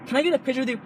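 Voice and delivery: eager fan request. Pretend. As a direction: lightly put on a picture-seeking fan. Voices the fan's request he rejects.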